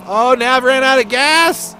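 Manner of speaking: high, loud shock at the news; shocked exclaim. Real, not acted. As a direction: shout it in disbelief. Car runs dry, commentator exclaims.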